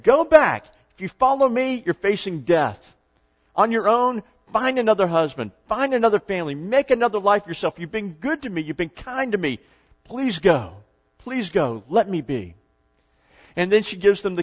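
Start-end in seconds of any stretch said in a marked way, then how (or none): 0.0-7.8 urgent urging. Acted. Acted Naomi urges them to leave. 7.8-12.5 gentle pleading. Acted. Acted Naomi tenderly begs them to go.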